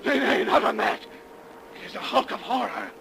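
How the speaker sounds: a high, loud cry of horror; terrified cry. Acted. Captain recoiling from the phantom ship, terrified cry. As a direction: recoil screaming at the sight.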